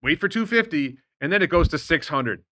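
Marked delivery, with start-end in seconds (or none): 0.0-1.0 higher-pitched mock exhortation; imitating Barry. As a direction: quote the advice in a raised, mocking call. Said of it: "And, and Barry says".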